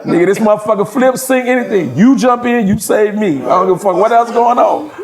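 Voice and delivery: cracking up while insisting; laughing. Retold or imitated. Teller replaying his gondola demand, laughing and high.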